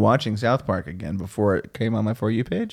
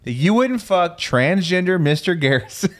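mock incredulity; 5 semitones higher than usual. Host pressing a friend, mock incredulity. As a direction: draw out the scandalized question. Mock outrage at co-host's claim.

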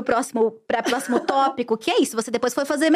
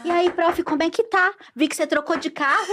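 lightly voiced nosy pupil, raised pitch; chatty pupil; 4 semitones higher than usual. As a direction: play a pupil angling for gossip, a little higher. Voicing a nosy, interested pupil.

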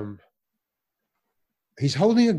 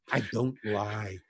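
laughing; 6 semitones lower, 3 dB quieter than usual. Real, not acted. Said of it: "they're all true".

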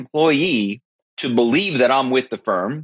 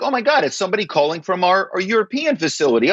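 flustered employee; 7 semitones higher, faster than usual. Retold or imitated. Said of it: "And now you're like".

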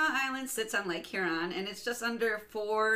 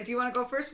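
"Do you wanna go first" with a raised, rising end; question tune; 4 semitones higher, 3 dB louder, faster than usual. Retold or imitated. Host mimicking what she always says, "first" lifted as a question. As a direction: lift "first" up like a real question. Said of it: "I say it like it's a question".

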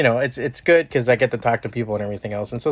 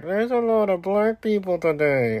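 casual racist quote; 7 semitones higher than usual. Retold or imitated. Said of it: "they're like".

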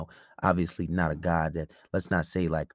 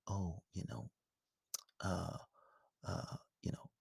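very calm pimp; 15 dB quieter than usual. Retold or imitated. Pimp talking calmly in an interview, soft and calm. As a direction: imitate his hushed, unbothered delivery. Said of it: "very calm voice. And he's like".

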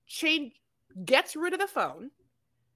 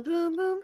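mock phone tone; 7 semitones higher than usual. Imitating phone error tone.

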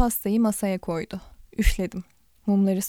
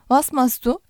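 German by ear; 4 semitones higher, 5 dB louder than usual. Acted. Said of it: "kulak dolgunluğuyla telaffuz etmeye çalıştım".

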